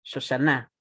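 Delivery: Shoshana stressed on its final NA; stress on last syllable. Shown as a demonstration. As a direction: demonstrate Shoshana as sho-sha-NA. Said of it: "en la última sílaba".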